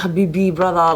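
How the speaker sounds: lightly imitated Turkish-friend accent; Turkish friend's accent. Showing how she talks with her Turkish friend, light Turkish accent. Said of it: "If I'm with my Turkish friend".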